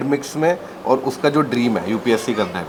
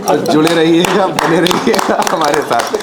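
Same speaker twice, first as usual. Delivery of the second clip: upbeat sign-off; 4 semitones higher, 4 dB louder, slower than usual. Acted. Host's sign-off to viewers.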